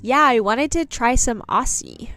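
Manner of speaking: imitating American friend. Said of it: "My American friend the other day said Aussie".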